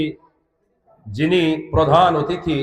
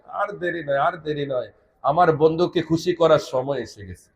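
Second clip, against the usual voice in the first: soft, lowered repetition before the climax; hushed quote; 3 semitones lower, 6 dB quieter than usual. Retold or imitated. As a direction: drop right down as you quote the promise. Retells God's urgent words, hushed. (নিচু গলায় বলা উদ্ধৃতি)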